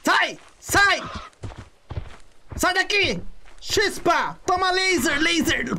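high, frantic shouts to get away; being chased. Real, not acted. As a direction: shoo them off in a panic. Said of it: "a tropinha tá vindo atrás de mim".

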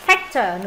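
"Factor" with A between ah and eh; short front A in "Factor"; half A, half E. Shown as a demonstration. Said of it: "nửa A nửa E".

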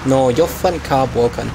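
hammed-up Chinese-style accent in broken English; mock broken-English accent. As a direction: play a delivery driver with a crude Chinese accent. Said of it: "sorry about the accent".

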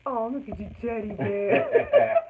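laughing through the words; giggling at it. Real, not acted. Laughing while admiring the block.

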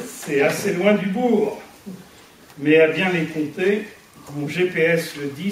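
measured verse, a pause after each line; poem recitation. Acted. Speaker reads her verse to the gathered friends, poem recitation. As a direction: recite homemade rhymes, line by line.

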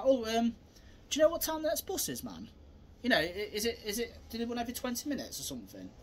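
hesitant, rambling daft question; playing dumb. Shown as a demonstration. Distracting someone at the bus stop, playing dumb. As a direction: act innocent and a bit clueless. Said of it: "I'm acting like an idiot".

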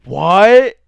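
high, loud shocked what. Real, not acted. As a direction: blurt it out in disbelief. Shocked reaction to story.

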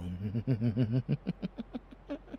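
closed, rising giggle; pleased chuckle. Acted. Villain pleased by lover's answer, sly rising giggle. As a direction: giggle slyly to yourself.

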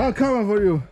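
shouted through laughter as a playful monster; laughing monster shout. Pretend. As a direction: roar it at the kid while laughing. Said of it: "He's such a monster".

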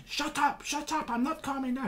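lightly hammed-up Bob brushing off a classmate; mock retort. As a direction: pitch up, dismissive teen. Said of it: "comes up and goes".

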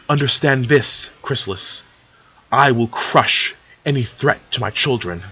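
understated, controlled sternness; stern and harsh. Acted. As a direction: warn an enemy with a touch of harshness. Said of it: "Celestia's speech was stern and harsh".

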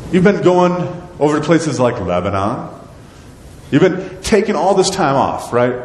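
sarcastic God. Acted. God chides the people for paneling their houses, sarcastic. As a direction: needle them with a dry sarcastic scold. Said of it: "This is why he uses sarcasm here".

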